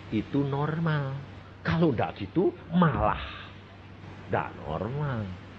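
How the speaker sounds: gentle fatherly talk. Retold or imitated. Father quietly explaining to his daughter that it is normal, soft and reassuring. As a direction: ease her worries, softly and patiently.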